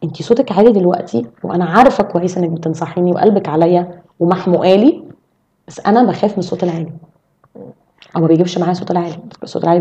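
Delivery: measured, understanding complaint; constructive feedback. Shown as a demonstration. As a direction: raise it gently, without attacking. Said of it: "الطريقة الصح ان انا لو انا متضايقة منك".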